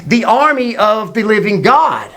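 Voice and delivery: put-on high, indignant young challenger; acted outrage; fired-up indignation. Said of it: "He gets fired up".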